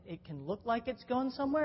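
normal talking voice

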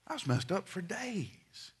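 usual speaking voice

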